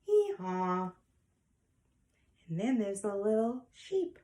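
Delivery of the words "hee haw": mild spoken donkey hee-haw; donkey bray. Acted. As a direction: imitate a donkey, stretching both syllables. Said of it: "What does a donkey say?".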